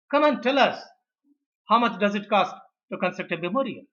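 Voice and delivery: imperious demand. Acted. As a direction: summon the assistant to prove a point. Director summons assistant after scoffing at couple.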